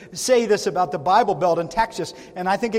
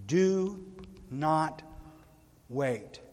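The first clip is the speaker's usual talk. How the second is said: quiet plea; 7 semitones lower, 8 dB quieter, much slower than usual. Real, not acted.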